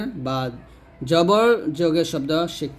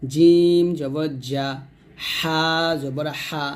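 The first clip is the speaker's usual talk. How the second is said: slow spelling-drill recitation with long-held letter names; read-along drill; slower than usual. Shown as a demonstration. Teacher leading learners to read along, slow drill recitation. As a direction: draw out each letter name, then land the syllable. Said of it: "আমার সাথে আপনারা পড়বেন".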